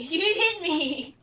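laughing. Real, not acted. Repeats complaint laughing slowly.

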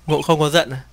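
central Vietnamese dialect, "Ngộ" for "anh"; reading in central Vietnamese dialect. Retold or imitated. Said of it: "Thả cái giọng của giọng Huế".

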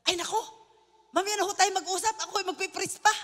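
innocent polite reply. Retold or imitated. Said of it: "sabi ko ba naman sa inosente ko".

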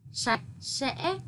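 sạch with a curled-tongue s, sẽ with a clear ngã tone; quiet, careful teacher's model of sạch sẽ. Shown as a demonstration. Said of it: "đọc cong lưỡi âm sờ ... thanh ngã trong tiếng sẽ".

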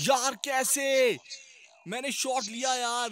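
disbelieving. Real, not acted. Disbelief at missed shot.

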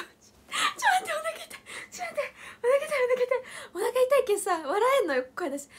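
high, strained laughing voice; laughing hard. Real, not acted. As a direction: gasp it out, belly aching.

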